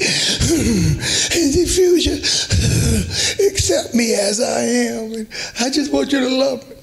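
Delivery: hammed-up sighing sobs, pitched high; fake-weep the plea between heavy sighs; mock crying daughter. Preacher imitates a daughter crying to win her parents, mock sobbing. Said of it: "now you have to cry deep".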